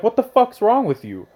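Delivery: high-pitched mock exasperation; retold disbelief. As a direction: act out a baffled reaction to a friend. Retold exasperated reaction to friend.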